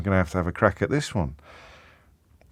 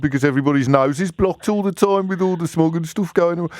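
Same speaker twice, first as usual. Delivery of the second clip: higher-pitched mock Black Country accent; 6 semitones higher than usual. Shown as a demonstration. Host demonstrating the smog theory to a caller, Black Country accent. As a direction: put on a blocked-nose Black Country accent. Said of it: "theories behind the black country accent".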